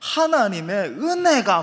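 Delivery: heavy provincial Korean dialect, laid on thick. Describing a famous preacher's sermons, in Lee Chan-soo's heavy dialect. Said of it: "이찬수 목사님 설교를 들으면은 참 사투리 심하다".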